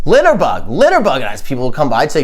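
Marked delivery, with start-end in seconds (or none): 0.1-1.2 mild mock yell; mock scream. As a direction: imitate screaming outside someone's house, held back. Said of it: "I screamed at him".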